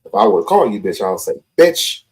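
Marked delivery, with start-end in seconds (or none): 1.6-2.0 a mild mock insult, slightly higher on "What you"; insulting delivery. Shown as a demonstration. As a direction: show how he would have said it. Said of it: "I would have said it like that".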